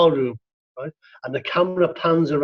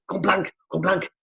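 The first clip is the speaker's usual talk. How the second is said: mock shout; 4 semitones higher than usual. Shown as a demonstration. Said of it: "you shout to your, your partner".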